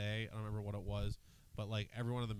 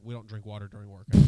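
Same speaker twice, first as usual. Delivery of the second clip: stern coach; 3 semitones lower, 13 dB louder than usual. Retold or imitated. Coach scolding quote, loud.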